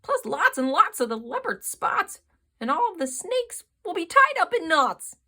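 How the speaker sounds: the zebra yells in alarm; loud panicked zebra; zebra yelling. A narrator's reading. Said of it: "The zebra yelled".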